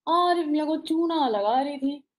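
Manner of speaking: unhurried, chewed-over line; lightly imitated measured poet; Gulzar's slow reading. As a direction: read it slowly with pauses. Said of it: "फिर उन्होंने मुझे पढ़ के सुनाया".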